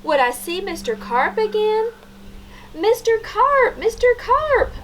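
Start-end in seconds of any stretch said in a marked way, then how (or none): 2.8-4.7 higher, louder calling; yelled. A narrator's reading. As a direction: call into the pool. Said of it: "I yelled".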